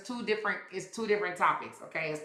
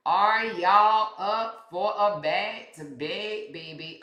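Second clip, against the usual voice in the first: drawn-out tease; 2 semitones higher, much slower than usual. Pretend. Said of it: "sing-song tease to viewers".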